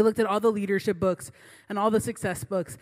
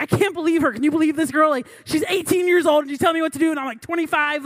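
higher and louder, indignant venting; mad venting; 4 semitones higher, 5 dB louder than usual. Retold or imitated. Venting to friends about the bossy girl, indignant and loud. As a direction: vent to friends like you're fuming. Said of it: "I'm mad".

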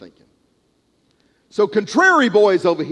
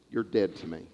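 cold pronouncement; 10 semitones lower, 10 dB quieter than usual. Retold or imitated. Father rejecting son at gate.

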